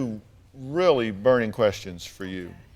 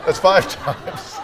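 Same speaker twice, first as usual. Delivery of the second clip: laughing through the words, slow; chuckles as he counts the oaths; 5 semitones higher, 3 dB louder, slower than usual. Real, not acted. Host laughing at the mother's repeated oaths, laughing. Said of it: "host laughing counting oaths".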